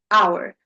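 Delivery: Hour said as /aʊə˞/ with no h; silent h hour. Shown as a demonstration. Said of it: "We're not saying".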